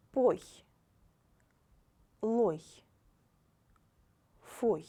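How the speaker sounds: Pla, plo, pli read out loud and clear; loud, careful syllable reading. Shown as a demonstration. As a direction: model each syllable crisply for the class. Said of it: "First line".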